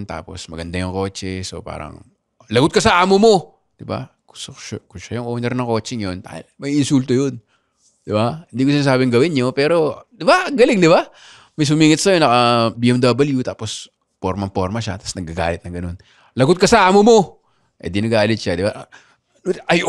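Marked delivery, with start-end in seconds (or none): 2.5-3.3 loud taunting shout at a rude driver; high loud jeering taunt; mock yell. Mock yelling at rich driver. 16.3-17.2 loud taunting shout at a rude driver; high loud jeering taunt; mock yell. Repeats taunt at rich driver.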